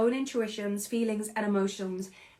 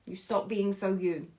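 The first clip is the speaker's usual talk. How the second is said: emotional; 3 semitones lower, 4 dB quieter than usual. Real, not acted. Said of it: "it makes me so emotional".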